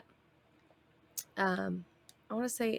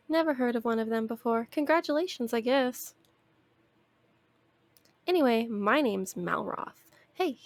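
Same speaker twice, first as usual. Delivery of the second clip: louder, brash companion voice; Malroth voice; 3 semitones higher, 4 dB louder than usual. Acted. Streamer reads Malroth's lines to the player, loud and brash. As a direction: read him brash and eager. Reading Malroth's dialogue aloud.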